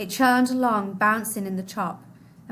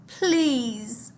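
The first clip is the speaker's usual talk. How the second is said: begging; 2 semitones higher than usual. Acted. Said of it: "Mahmoud begged".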